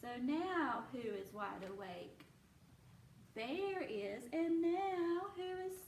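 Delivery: lively, sing-song storybook reading; reading to children. A narrator's reading. Teacher reading a bear story aloud to her class, animated. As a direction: read it like a picture book to little ones.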